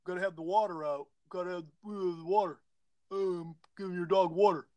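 lightly put-on dopey voice; mock the idea in a slightly dumb voice; a hint of a dimwit, halting. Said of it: "say it with that dumb voice".

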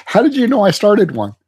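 talking while chewing. Real, not acted. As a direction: mouth full of food. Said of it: "Please stop eating".

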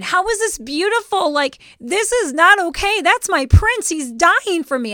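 high, loud mock wail of a distraught child; hammed-up kid outburst; retold childhood screaming. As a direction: protest like a heartbroken little girl. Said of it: "I remember screaming".

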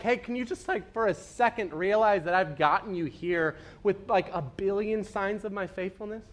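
calm him down gently; gentle God. Retold or imitated. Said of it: "God is like".

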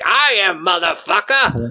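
roaring conscience; yelling conscience. Retold or imitated. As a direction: bellow it back at him. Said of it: "the conscience is like".

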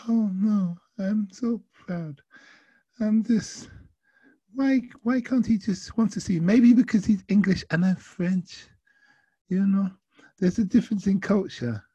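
high-pitched mock Frenchwoman; attempted French accent. Proud passenger explaining herself to driver, high French accent. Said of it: "I cannot do a French accent, but I will try my best".

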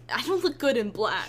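giggling mock complaint; laughing whine. Mourner voiced, laughing.

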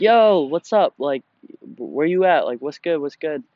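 retold demanding yo; mock urgent call-out. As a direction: call him out, half-acted. Chasing the scammer, retold.

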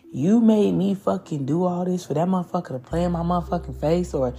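mildly irritated complaint; fed-up venting, a touch heated. Acted. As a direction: act out someone irritated at being put through it. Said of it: "it's irritation".

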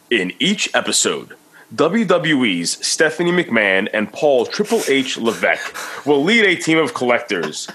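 big hype announcer read. Shown as a demonstration. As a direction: read it like a wrestling show announcer. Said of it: "in my announcer voice".

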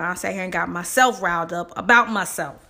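talking with braces on; words shaped around braces. Real, not acted. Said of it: "as you can probably hear how, by, from how I sound".

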